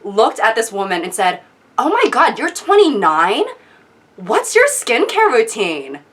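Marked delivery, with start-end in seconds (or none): 1.8-6.0 wide-eyed earnest amazement, swooping pitch; imitated starstruck sincerity; mock earnest. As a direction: gush it as an earnest, amazed question. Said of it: "literally so earnestly".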